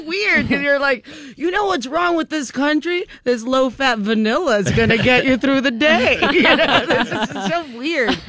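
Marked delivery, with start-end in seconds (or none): 1.4-6.2 higher-pitched, lightly parodied TV presenter; mock earnest host. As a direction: pitch yogurt as if it mattered. Mocks abrupt switch to yogurt segment.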